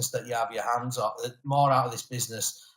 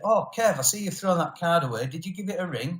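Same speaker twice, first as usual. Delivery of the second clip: lightly voiced brother, pitched higher; a hint of a chatty, questioning brother, higher voice; quoted brother; 4 semitones higher than usual. Brother asking about the discarded card, lightly imitated.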